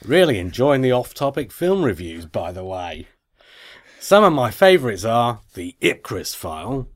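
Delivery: effortful, badly faked Aussie accent; Australian accent. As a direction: read the email in mock Australian. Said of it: "in an Australian accent".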